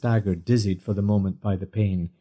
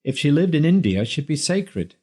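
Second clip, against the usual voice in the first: game comedian; 4 semitones higher than usual. A narrator's reading. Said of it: "he declared gamely".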